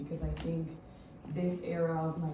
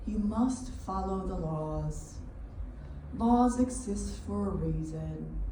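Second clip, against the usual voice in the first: measured monologue, each phrase set apart by pauses; spoken-word performance; 4 dB louder than usual. Acted. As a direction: recite it deliberately to an audience.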